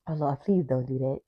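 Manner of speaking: real tearful laugh creeping in; crying and laughing at once; close to crying. Real, not acted. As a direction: plead through tears, half laughing. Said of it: "make me cry even more".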